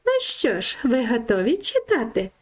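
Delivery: голос Равлика. Acted. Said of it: "Равлик каже". (високий голосок равлика-персонажа)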